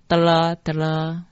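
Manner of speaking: 德拉德拉 as two even "dara" units; mantra pronunciation. Shown as a demonstration. Teacher showing how line thirty is read, pronunciation demo. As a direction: demonstrate 德拉德拉 with long final "la". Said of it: "所以三十句念成".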